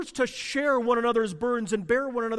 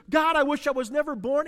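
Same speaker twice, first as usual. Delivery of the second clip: anguished cry; 6 semitones higher, 4 dB louder, faster than usual. Retold or imitated. Voicing anguished prayer.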